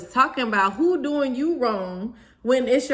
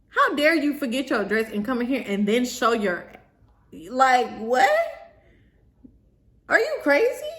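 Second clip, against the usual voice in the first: retold indignant telling-off; pissed off; 2 semitones higher than usual. Bride scolding the bridesmaid who forgot her dress, pissed off. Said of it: "So now I'm pissed".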